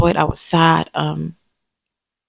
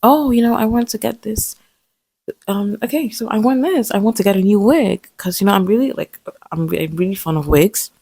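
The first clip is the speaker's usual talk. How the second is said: coy voice; 4 semitones higher than usual. Retold or imitated. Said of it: "I'm like".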